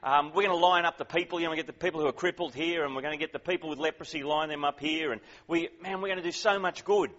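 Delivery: lightly acted eager, hurried follower; a touch of hustling, keyed-up enthusiasm; eager Peter. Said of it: "you can hear Peter thinking".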